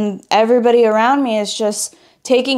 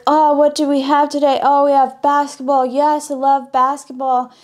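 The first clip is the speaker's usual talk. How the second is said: higher, bubbly mock enthusiasm; mock excited girls; 4 semitones higher than usual. Imitating the sporty girls thrilled about basketball, mock excited. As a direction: ham up the girls' cheer for basketball. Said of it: "because they're like".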